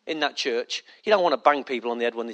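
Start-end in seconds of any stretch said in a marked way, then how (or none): 0.0-0.8 mock complaining churchgoer. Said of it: "And that's when people say".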